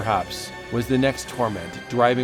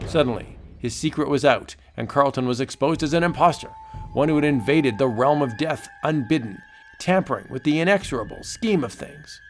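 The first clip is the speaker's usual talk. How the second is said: dramatic pulp narration; comic book narrator. A narrator's reading. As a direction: narrate like an old radio thriller. Narrator continues story.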